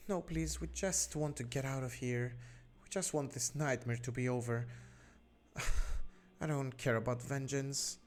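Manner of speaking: a touch of weeping as she pleads to go home; sobbing. Acted. Mother refuses vengeance and begs to leave, lightly tearful. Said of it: "while continuing to sob".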